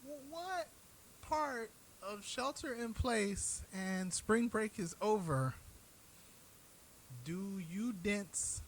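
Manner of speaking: can't believe how dense they are; incredulous exasperation. Real, not acted. To spring break partiers, high incredulous exasperation.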